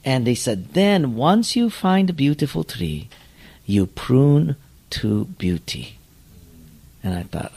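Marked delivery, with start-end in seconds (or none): 0.7-6.0 put-on slow, Japanese-accented final lesson; Mister Miyagi voice. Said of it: "so we'll just call him Mister Miyagi".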